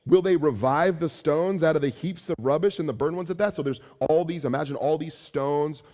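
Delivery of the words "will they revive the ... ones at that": higher, louder sneering questions; mocking taunt. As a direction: scoff at the wall builders. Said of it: "a mocking rhetorical question".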